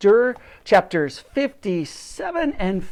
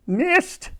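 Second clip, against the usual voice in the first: calling out. A narrator's reading. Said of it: "called out the professor".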